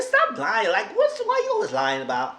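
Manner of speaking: high, loud stop lying; outraged shout. Real, not acted. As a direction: call him out loud and high. Calling out Michael's lie.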